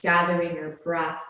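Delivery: "gathering" repeated with firm weight; stress on gathering. Shown as a demonstration. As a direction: press gently but clearly on "gathering". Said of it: "I emphasize that word".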